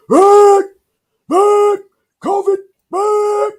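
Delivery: high piercing shout of alarm; screaming. Retold or imitated. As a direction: yell it in panic, arms crossed. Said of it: "And he's screaming covid".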